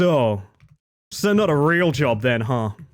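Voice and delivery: put-on flat, disdainful voice. Retelling a doctor's reply about a streaming job: imitating Doctor Brad's neutral disdain. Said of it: "the most disdain I've ever seen a man give".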